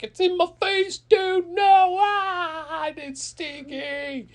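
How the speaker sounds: high, loud panicked shriek; freaking out. Acted. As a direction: wail in hammed-up disgust and panic. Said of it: "Cat catcher's freaking out".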